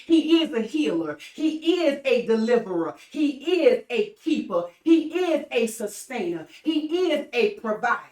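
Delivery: rhythmic preacher's litany, each line punched; sermon chant building on he is; preaching. Acted. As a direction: preach it like a roll call of praise.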